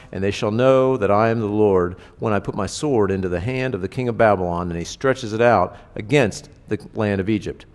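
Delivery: measured, earnest reading of prophecy; scripture reading. Acted. Preacher reading Ezekiel to the congregation, solemn. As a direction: read the Lord's words with weight. Reads scripture passage aloud.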